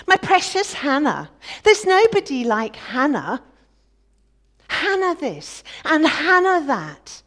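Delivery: loud, high sneering imitation of doting praise; mocking the husband. Rival wife mocking how husband praises Hannah, loud sneer. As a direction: ham up his adoration to ridicule it. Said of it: "Listen to him".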